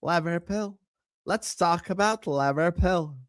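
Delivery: playful Irish accent impression. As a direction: mimic her Irish "Liverpool", vowels bent to "Lavverpel". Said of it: "That's how she speaks".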